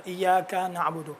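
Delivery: ایاک said slowly, vowel leaning toward alif; drawn out ایاک with alif-like first vowel; careful demo of ایاک; slow pronunciation demo. Shown as a demonstration. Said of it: "تھوڑا سا الف کی طرف مائل ہوتا ہے".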